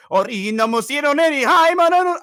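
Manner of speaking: high, loud fake Japanese gibberish; loud, high mock Japanese anime voice. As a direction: imitate anime dialogue from the next room. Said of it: "all I hear is".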